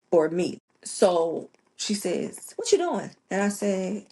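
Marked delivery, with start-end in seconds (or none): 2.5-3.1 mom's high-pitched question, imitated; imitating odd-sounding mom. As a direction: voice mom asking, pitched well up. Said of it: "My mom don't talk like this".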